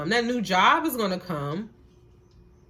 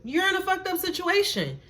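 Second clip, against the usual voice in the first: higher, firm, confirming it; emphatic affirmation; 10 semitones higher than usual. Real, not acted. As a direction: say it back to them high and sure. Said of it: "acknowledge it".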